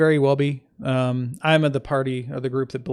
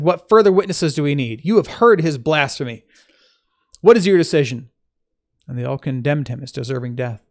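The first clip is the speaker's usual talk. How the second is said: clear, emphatic Bible reading; scripture reading; 5 dB louder than usual. Acted. Teacher reading the Gospel to listeners, measured scripture reading. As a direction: read the passage aloud with firm opening stresses.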